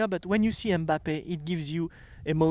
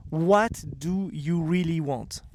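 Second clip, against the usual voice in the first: slow emphatic question; 3 dB quieter, slower than usual. Shown as a demonstration. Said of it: "With my French accent".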